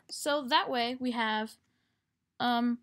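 normal talking voice

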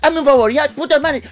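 high-pitched, insistent mock plea; pleading friend. Ayrton begs Caquita and refuses to leave, high insistent voice. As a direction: imitate a stubborn friend begging, way up high.

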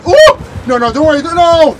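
high loud hurried reassurance; frantic, trying to calm the team; panicking gamer. Real, not acted. Panic while rescuing teammate.

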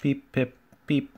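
short, high little pips; imitated engine whistle. A narrator's reading. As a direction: peep back like a small engine.

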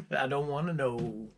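laughing. Real, not acted. Laughing about tacos.

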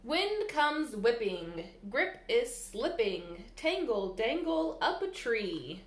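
lilting, sing-song storybook reading; bouncy picture-book read-aloud; reading to children. Acted. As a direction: read the rhymes to little ones at storytime.

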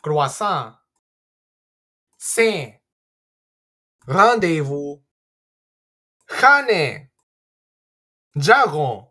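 "Croissant", "Saint" with nasal vowels. Shown as a demonstration. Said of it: "Here are the answers".

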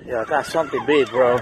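fast, breathless yeah I got something big; real excitement while fighting the fish; excited rush. Real, not acted. Fish pulling hard.

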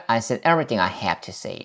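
slow, careful model sentence; teacher models the answer slowly; slow teacher read. Shown as a demonstration. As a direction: spell it out slowly for learners. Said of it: "이렇게 한번 끝내볼까요".

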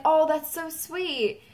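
high, slow coo; imitated gushing thanks; retold touched reaction. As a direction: draw it out, sweetly touched. Voicing singer touched by praise.

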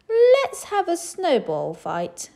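high, loud, slow hearty general. A narrator's reading. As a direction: propose it like a game. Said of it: "said the general".

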